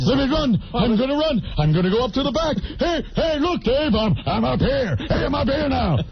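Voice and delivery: lightly voiced hyperactive show-off comic; manic Robin Williams. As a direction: call attention to yourself, mock-excited. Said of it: "he has to run all over the stage".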